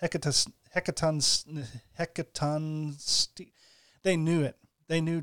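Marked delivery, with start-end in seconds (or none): 0.0-3.5 Hecatos- hecatons- hecatonsti- broken into slow syllables; slow sounding out. Shown as a demonstration. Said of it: "let's all have a, a phonetics lesson".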